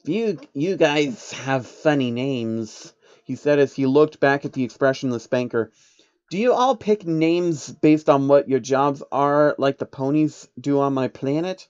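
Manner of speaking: little alien teasing about names; curious changeling. Acted.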